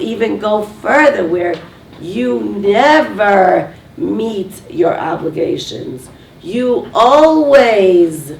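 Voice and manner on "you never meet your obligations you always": slow, loud, drawn-out accusation; accusing. Retold or imitated. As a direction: lean hard on each word like a spouse laying blame. Accusing spouse in a quarrel.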